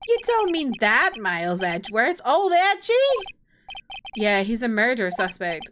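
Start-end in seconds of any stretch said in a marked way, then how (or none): 0.1-2.9 swooping high exclamations, cartoonish disbelief; astonished goofball. Friend hearing an old classmate's name, astonished. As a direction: react like a shocked goofy pal, pitch leaping. Voices Larry in the game.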